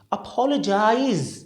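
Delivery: "अपोलोजाइज" as uh-POL-uh-jize; careful pronunciation. Shown as a demonstration. Teacher modelling for learners, "अपोलोजाइज" as uh-POL-uh-jize. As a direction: end "अपोलोजाइज" on a long buzzing z. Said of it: "इसको हम क्या बोलेंगे?".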